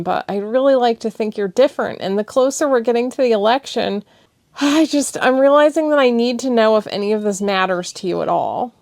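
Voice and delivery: high, loud, urgent pleading; impassioned, near tears; passionate plea. Acted. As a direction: pour out her frustration.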